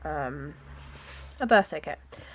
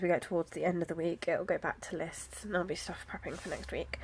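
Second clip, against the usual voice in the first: whispering; 3 semitones lower, 6 dB quieter than usual. Real, not acted. Quiet aside about the week.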